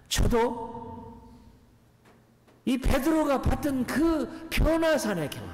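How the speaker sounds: high, drawn-out preacher's delivery; sustained high pulpit plea; impassioned preaching. Acted. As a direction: preach it slowly, pitched well up. Preaches at full force.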